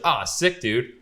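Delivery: high, loud, impressed exclamation; retold stoked reaction. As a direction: imitate a buddy thrilled by the news. Retold friend's delighted reaction.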